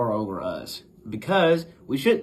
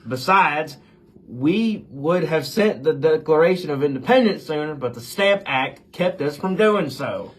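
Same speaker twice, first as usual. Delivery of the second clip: louder, heated patriotic protest; indignant retort; 5 semitones higher, 6 dB louder than usual. Acted. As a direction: push back hard, offended. Washington retorts to the insults.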